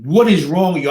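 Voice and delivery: mild mock yell of outrage; retold scream. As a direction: imitate screaming at someone, only half as loud. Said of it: "and I'm screaming".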